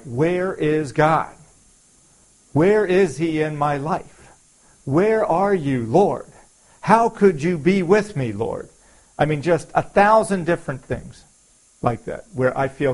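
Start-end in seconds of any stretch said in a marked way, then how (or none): 0.0-8.7 anguished plea. Retold or imitated. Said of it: "where I feel like".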